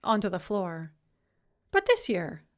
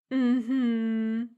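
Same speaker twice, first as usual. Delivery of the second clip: skeptical. A narrator's reading. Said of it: "said my grandmother skeptically".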